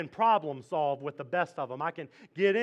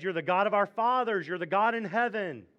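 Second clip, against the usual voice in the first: higher, louder exalted praise; praising prayer; 6 semitones higher, 4 dB louder than usual. Retold or imitated. Jehoshaphat reminding himself of God's power, exalted. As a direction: proclaim God's might. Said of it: "And he says".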